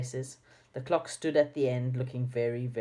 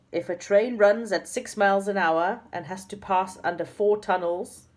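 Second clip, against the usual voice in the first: reading bewildered; 5 semitones higher, 4 dB louder than usual. A narrator's reading. Joe reads nonsense questions aloud.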